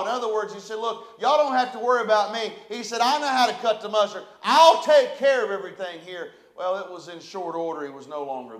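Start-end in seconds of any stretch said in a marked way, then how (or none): 0.8-6.3 loud, cocky boast to the congregation; swaggering leader showing off to the church; boastful brag. Retold or imitated. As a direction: puff up and brag like you're above them all. Preacher voices arrogant church leader.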